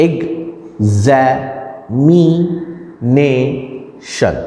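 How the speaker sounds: examination very slowly in five separate pieces; drawn-out syllable count. Shown as a demonstration. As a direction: break examination into ex-za-mi-NAY-shun with gaps. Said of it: "पांच sound से मिलके बन रहा है".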